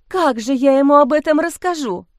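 a touch of tearful wailing; lightly voiced distressed young woman; mock sobbing question. A narrator's reading. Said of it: "Снова всхлипнула Лиза".

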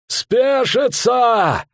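drawn-out high shout; hoarse shout. A narrator's reading. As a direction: bellow the order at the soldiers. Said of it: "хрипло крикнул он солдатам".

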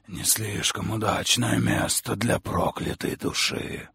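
slow, strange otherworldly voice; a lightly voiced sinister creature; eerie creature voice. Creature voice of the visor-faced being.

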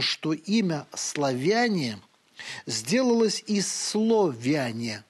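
each word laid out very slowly; slow solemn reading. Acted. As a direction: savour the old phrase, very slowly. Continues Shishkov quote. (очень медленное, торжественное чтение)

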